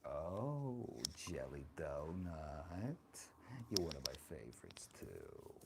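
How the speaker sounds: lightly voiced doting old grandma; sassy old granny, chatty and fond; grandma character. Streamer playing grandma, chatting with her viewers.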